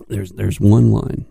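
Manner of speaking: ordinary delivery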